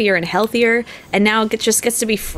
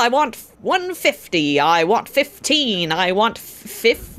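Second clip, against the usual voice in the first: auctioneer patter. Acted. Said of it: "a auctioneer and then a racehorse commentator".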